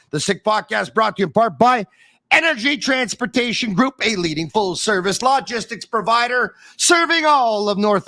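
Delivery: upbeat podcast ad read, each name punched; sponsor ad read. Acted. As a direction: sell the sponsors like a radio host. Reads sponsor ads.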